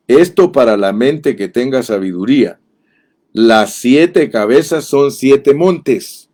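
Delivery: slow, solemn Bible reading; scripture reading. Acted. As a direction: read the verse aloud slowly, weighing each phrase. Lectura bíblica en el sermón. (lectura bíblica lenta y solemne)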